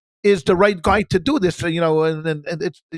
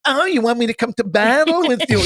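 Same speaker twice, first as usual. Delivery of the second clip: mock-incredulous, pitched up; a touch of Jewish sarcasm; sarcastic; 5 semitones higher than usual. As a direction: drip sarcasm on the offer. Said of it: "Jewish sarcasm".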